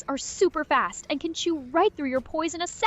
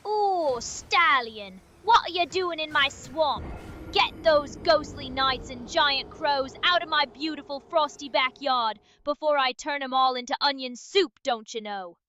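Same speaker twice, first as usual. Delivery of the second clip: lightly Irish-tinged ogre queen; a hint of Irish in an ogre impression; She-Shrek. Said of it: "summon the inner green ogre queen".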